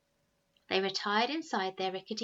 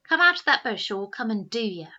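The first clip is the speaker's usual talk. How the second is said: calling threat; 2 semitones higher, 11 dB louder than usual. Acted. Eldest boy shouting a threat up to Albert. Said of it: "called the first Snargett".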